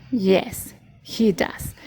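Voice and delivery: whispered answer. Shown as a demonstration.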